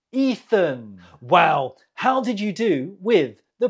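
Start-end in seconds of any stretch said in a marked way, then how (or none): 0.1-1.0 "Ethan" pronounced EE-thun, falling; model pronunciation. Shown as a demonstration. Teacher repeats the last answer for learners, "Ethan" said as EE-thun. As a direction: open on a long EE in "Ethan". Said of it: "How do you say this name?".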